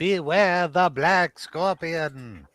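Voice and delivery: slow, ominous announcer; horror trailer voice. Retold or imitated. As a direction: intone it like a monster movie trailer. Mimics trailer narrator, laughing.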